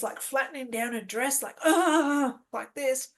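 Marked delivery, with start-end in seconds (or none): 1.6-2.3 composing huff. Retold or imitated. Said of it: "She calms herself down".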